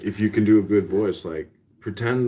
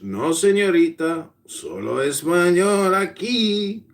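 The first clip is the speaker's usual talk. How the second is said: high, slow mock Hispanic voice; exaggerated Hispanic accent; 5 semitones higher, slower than usual. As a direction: play a Spanish-only caller in hammed-up accent. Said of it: "can you do a Hispanic a-, accent".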